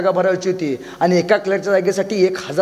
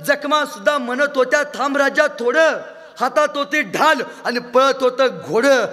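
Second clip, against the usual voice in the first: poem recitation; 6 semitones higher than usual. Acted. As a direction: declaim the poem with passion. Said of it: "एक कवी मित्र एके ठिकाणी म्हणतो".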